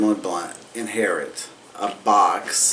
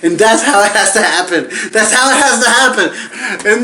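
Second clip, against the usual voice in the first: worked-up rant; 7 semitones higher than usual. Real, not acted. Rant about missing dad.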